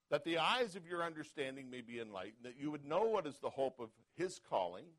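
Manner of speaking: rising to a loud preaching peak on the Lord's name; scripture reading. Acted. Pastor reading Ephesians to the church, preaching. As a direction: read the verses as a building sermon.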